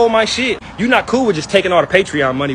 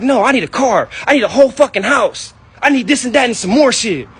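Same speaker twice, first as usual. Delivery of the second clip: mocking greedy mom; 5 semitones higher than usual. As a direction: ham up her greedy demands. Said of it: "She like".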